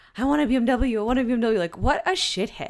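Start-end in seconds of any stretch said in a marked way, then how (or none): 0.1-1.5 acted tearful whine, high and raised, begging tone. Retelling begging your parents as a fifteen-year-old: retelling begging as a teen. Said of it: "just begging".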